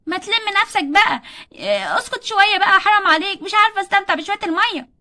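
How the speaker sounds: wife snaps at nagging husband, annoyed; annoyed snapping. Acted. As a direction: tell him to back off. Mother snaps back at husband.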